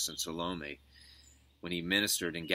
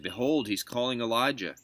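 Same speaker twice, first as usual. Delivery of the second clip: higher, lightly acted call; raised-pitch exclamation; bystander's exclamation; 6 semitones higher, 6 dB louder than usual. A narrator's reading. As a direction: announce it to those nearby. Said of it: "some of the bystanders".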